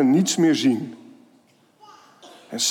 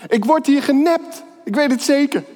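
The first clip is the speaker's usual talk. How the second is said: put-on suspicious child; 7 semitones higher than usual. Child suspects a trick on facetime.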